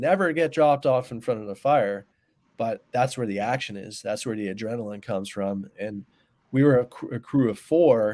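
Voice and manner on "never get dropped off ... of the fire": ordinary delivery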